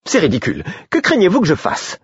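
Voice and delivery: véhémente et aiguë; indignée. Acted. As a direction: protester avec véhémence. Patience argues with guard. (ton véhément, indigné)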